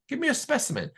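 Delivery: high, sly "Give me a specimen"; sinister doctor. Retold or imitated. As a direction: tempt the boys with a creepy sweetness. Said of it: "he basically gets a little sinister now".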